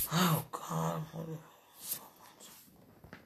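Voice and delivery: very soft, fading into a whisper; longing murmur. Real, not acted. Confessing desire to a lover, murmured softly. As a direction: let it sink to a bare breath. Intimate message to absent lover.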